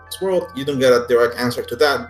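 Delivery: ordinary talk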